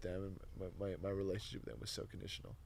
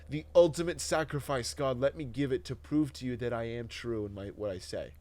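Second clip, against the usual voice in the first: militaristic vow; 3 semitones higher, 8 dB louder than usual. Retold or imitated. Retold militaristic martyr prayer.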